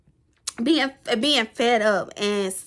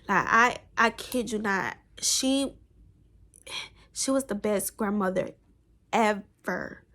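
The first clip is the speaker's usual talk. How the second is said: quiet, choked-up voice as she praises her grandmother; holding back tears, softly; tearing up; 3 semitones lower, 6 dB quieter than usual. Real, not acted. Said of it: "kinda teared up".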